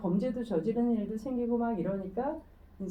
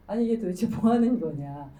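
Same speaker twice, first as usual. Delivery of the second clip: mock-indignant, louder complaint; indignant protest; 5 dB louder than usual. Crowded-out lecture audience protesting to the organizers, indignantly. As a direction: demand an explanation, acting mildly outraged.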